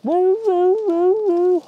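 high, loud hound-dog baying howl; bay like a beagle on a rabbit trail; mock beagle bay to flush the rabbit. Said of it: "I gotta be my own dog".

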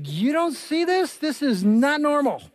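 slow, high-pitched disbelief; imitating incredulous wife. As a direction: spell it out slowly, as the baffled wife. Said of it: "looking at me like".

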